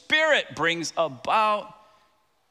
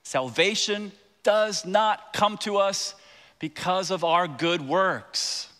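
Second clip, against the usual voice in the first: slow, weighty stress on "does not come to us"; emphatic; slower than usual. Real, not acted. Preacher restating salvation to the congregation, emphatic. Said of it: "I wanna emphasize it again".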